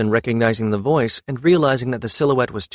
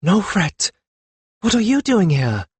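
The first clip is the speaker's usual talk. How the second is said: high sharp rebuke, louder; older woman scolding a girl, sharp and raised; 9 semitones higher, 4 dB louder than usual. A narrator's reading. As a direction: snap the name, then demand an answer. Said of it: "said sharply".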